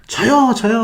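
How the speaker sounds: high, eager crowd imitation; imitated volunteers calling out; mock fan shout. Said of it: "하고 소리를 칩니다".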